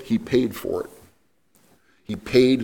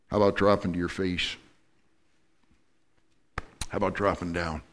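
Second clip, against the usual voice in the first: gentle voice of God; 3 semitones lower, 5 dB quieter than usual. Acted. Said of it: "God says".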